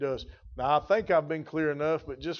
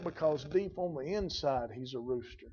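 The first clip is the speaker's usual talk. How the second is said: hushed reveal; 7 dB quieter than usual. Acted. Preacher revealing the rooster's nature, hushed and soft. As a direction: drop much softer for "he's a rooster".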